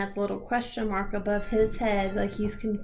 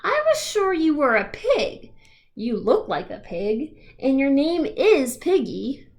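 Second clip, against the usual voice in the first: astonished protest; 3 semitones higher, 4 dB louder than usual. Acted. Gerald protests in disbelief.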